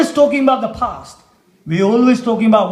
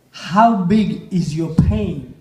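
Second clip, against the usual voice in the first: slower, weighing each word; slow emphatic question; slower than usual. Shown as a demonstration. Speaker to the audience, repeating the question slowly. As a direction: let the question sink in slowly.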